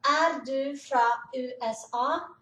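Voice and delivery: slow, careful "Er du fra U S A?" with each letter spelled out; slow demo. Shown as a demonstration. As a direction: spell out "U S A" slowly for learners. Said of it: "ele pergunta".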